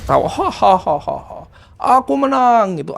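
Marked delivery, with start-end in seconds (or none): 0.3-1.4 evil laugh. Retold or imitated. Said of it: "kayak ketawa jahat gitu". 2.0-2.8 high, triumphant "Aku menang" like a film villain; gloating villain. Retold or imitated. Possessed nephew gloating from inside the house, high and triumphant. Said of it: "kayak ketawa jahat gitu".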